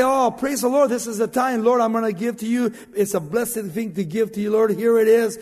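joyful giver. Retold or imitated. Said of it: "When we give, say".

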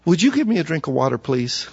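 soft, quick, polite ask, fading on please; polite request. Retold or imitated. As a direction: ask kindly, no demand. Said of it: "doesn't sound like such a mean, ugly request".

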